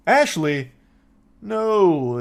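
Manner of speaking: lightly voiced caller acting casual; a hint of a slow, cool denial; imitating playing it cool. Mimicking the drunk caller dodging the police. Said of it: "she's trying to play it cool".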